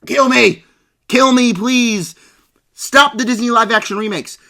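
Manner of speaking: begging in hammed-up despair; theatrical groan of suffering; mock despair. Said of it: "and I'm like".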